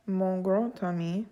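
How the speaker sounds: "grand ami" linked with a T; French "mon grand ami", T joining the words; liaison T sound. Shown as a demonstration. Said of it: "sounding like a T in a liaison".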